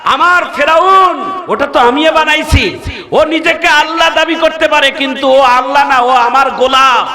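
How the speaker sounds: preacher's ringing quoted address; calling out. Retold or imitated. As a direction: declare it as retold divine speech. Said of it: "আল্লাহ ডাক দিয়ে বলেন".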